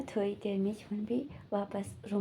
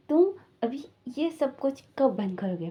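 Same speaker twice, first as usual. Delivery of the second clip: louder, higher retold angry question; angry demand; 4 semitones higher, 5 dB louder than usual. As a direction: scold him like you've lost patience. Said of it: "भांगचिंग वो ना गुस्से में". (गुस्से में, ऊँची और तेज़ आवाज़ में डाँटते हुए)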